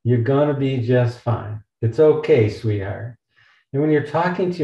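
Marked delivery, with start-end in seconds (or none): 0.0-3.2 Southern accent. Shown as a demonstration. Speaker showing a self-comforting Southern voice. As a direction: sweet-talk yourself in a mild Southern accent. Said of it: "a Southern United States accent might be something like".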